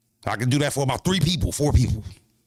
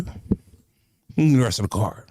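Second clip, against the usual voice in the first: slow drawn-out demand; much slower than usual. Real, not acted. Streamer demanding the rest of the card, slow and drawn out. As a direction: stretch every word out slowly, insistent.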